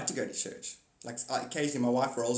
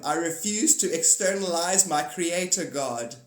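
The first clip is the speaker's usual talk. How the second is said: mock dramatic proclamation; 4 semitones higher, 6 dB louder, slower than usual. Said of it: "Tell them".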